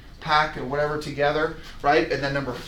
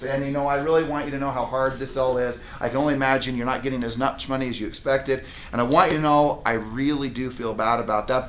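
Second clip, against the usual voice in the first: nurturing; 3 semitones lower, 3 dB quieter than usual. Shown as a demonstration. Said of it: "great, nurturing".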